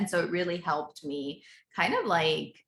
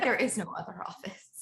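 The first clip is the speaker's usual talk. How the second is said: whisper; 3 semitones higher than usual. Retold or imitated. Mom's reply, whispered.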